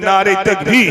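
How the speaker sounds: first rallying shout, voice kept down in pitch; loud takbir call. Real, not acted. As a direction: lead the crowd in a strong, low-pitched chant. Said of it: "একটু জোরে তাকবীর দেন".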